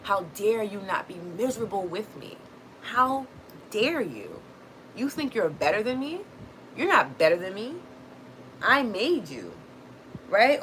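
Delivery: mock outrage with swooping pitch; upset, indignant relative. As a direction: act out an offended parent demanding attention. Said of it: "people are going to be so upset".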